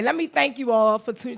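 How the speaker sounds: usual speaking voice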